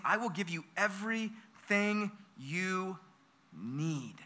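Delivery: slow, softening to a hush on need; gentle voice of God. Acted. Preacher voicing God's promise to the congregation, slow and hushed. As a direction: voice God's promise tenderly, fading out.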